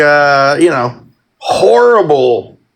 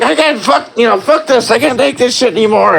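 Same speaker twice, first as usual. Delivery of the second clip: fed up; 5 semitones higher, faster than usual. Retold or imitated. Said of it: "I'm just like".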